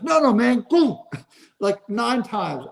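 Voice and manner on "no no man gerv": No, no, man, higher, then a mumbled Gurr; imitating a mumble. Rookie brushing off a reporter's question, mumbling. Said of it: "He goes".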